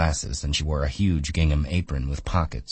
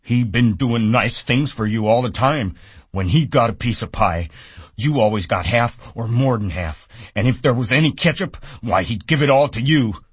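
put-on higher, louder, nagging old woman; scolding aunt in Lennie's voice; 8 semitones higher, 6 dB louder than usual. A narrator's reading. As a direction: scold him like a stern aunt. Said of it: "she went on in Lenny's voice".

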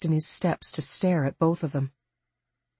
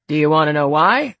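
louder, bright and eager; 7 dB louder than usual. A narrator's reading. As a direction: ask it with relish. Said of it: "Elkins asked brightly".

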